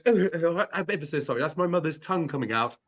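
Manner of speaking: lightly voiced prim English apology; a hint of a flustered gentleman saying sorry; mock posh apology. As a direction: friend retelling Eubank, mock posh apology. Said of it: "then he goes".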